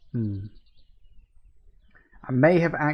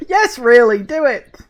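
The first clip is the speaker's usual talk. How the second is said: eager egging on; 9 semitones higher, 8 dB louder than usual. Real, not acted. Urging the game on.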